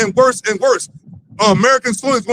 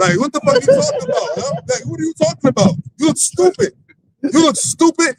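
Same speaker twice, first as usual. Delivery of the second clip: higher-pitched, incredulous scolding; pitched-up mock outrage; mocking disbelief; 5 semitones higher than usual. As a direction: call him out in exasperated disbelief. Mocking an absent official's words.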